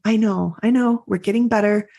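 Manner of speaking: gentle, reassuring self-encouragement; loving self-talk. Retold or imitated. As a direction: comfort yourself like a kind friend. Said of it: "lovingly saying".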